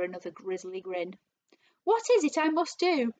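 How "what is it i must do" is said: high, loud pleading question; desperate cry. A narrator's reading. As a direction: implore him for instructions. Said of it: "cried Missus Twit".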